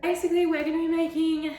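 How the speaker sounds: breathless; panting a little; out of breath. Real, not acted. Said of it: "why am I out of breath?".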